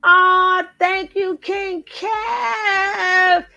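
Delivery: high, loud, choked-up thanks on the verge of crying; moved to tears. Real, not acted. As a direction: cry out your thanks, overwhelmed and touched. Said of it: "King Kev, you gonna make me cry".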